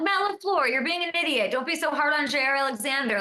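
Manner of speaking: mock rant at the coach; mock scolding. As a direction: scold the coach like a frustrated fan. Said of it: "I'm like".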